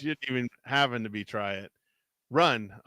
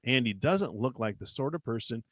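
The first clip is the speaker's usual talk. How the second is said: measured read-aloud storytelling; story narration; 3 dB quieter than usual. A narrator's reading. Reading a choose-your-path adventure aloud to a co-host, story narration. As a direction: narrate an adventure, lingering on the suspense.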